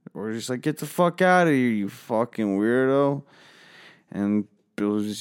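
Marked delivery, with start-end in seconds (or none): 0.6-3.2 sudden high yell at the weirdo; shouted insult. Retold or imitated. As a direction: bark him off the property. Yelling at Billy to leave.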